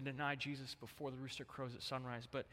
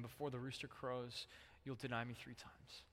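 quiet solemn quote; 6 dB quieter than usual. Retold or imitated. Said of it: "Jesus had told him".

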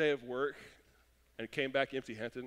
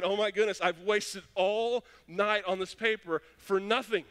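loud, high exasperated wail over the lost paper; frustrated groan; 5 semitones higher, 5 dB louder than usual. Retold or imitated. Student despairing to himself over the unsaved paper, loud and high. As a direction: let the panic and frustration burst out.

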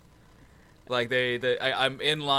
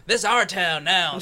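gleeful boast; 7 semitones higher, 7 dB louder than usual. Retold or imitated. Mock boast walking in rain.

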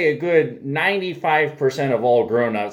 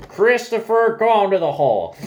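raised, higher stern teacher voice; 9 semitones higher than usual. Retold or imitated. Teacher sending a boy into the hall, high and stern. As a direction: order the boy out like a strict teacher.

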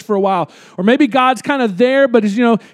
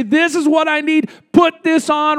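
put-on child's whiny plea; 4 semitones higher than usual. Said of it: "they're crying and bawling".

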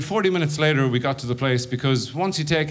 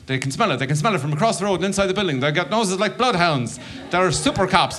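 rising panicky inner voice; paranoid drug brain; 5 semitones higher than usual. Retold or imitated. Stoned comic to audience, paranoid inner voice. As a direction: voice of a jittery stoned mind. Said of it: "my drug brain was going".

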